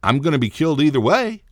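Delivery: half-joking sense of doom; mock panic. Retelling his panic beside the breastfeeding woman, mock dread. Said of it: "I'm like".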